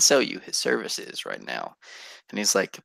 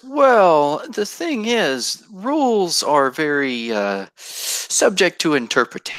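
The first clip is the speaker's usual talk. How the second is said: scheming merchant; 4 semitones higher than usual. Acted. GM voicing Otis the merchant.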